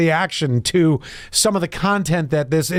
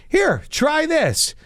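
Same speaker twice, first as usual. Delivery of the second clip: slow high offer; 9 semitones higher, much slower than usual. Acted. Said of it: "Guy goes".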